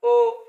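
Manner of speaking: teacher calling out "olodo" high and loud; clear demo word. Shown as a demonstration. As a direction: sing out "olodo" brightly for the class. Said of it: "listen again to that word".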